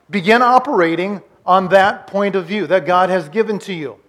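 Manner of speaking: measured, forceful preacher's repeat. Real, not acted. Repeats the point emphatically.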